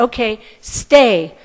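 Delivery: firm command. Retold or imitated. Sage ordering his cow to stay, slow firm command. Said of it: "give the order saying stay".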